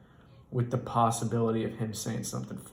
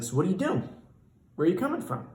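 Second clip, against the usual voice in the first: boss voice; 7 semitones higher, much faster than usual. Retold or imitated. Boss interviewing new driver.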